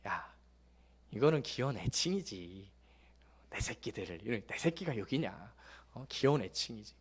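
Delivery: soft, fond dad voice, dropping to a whisper; affectionate reply. Retold or imitated. Father gently answering his teasing kids, softly fond. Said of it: "그럼 제가 이렇게 얘기를 해요".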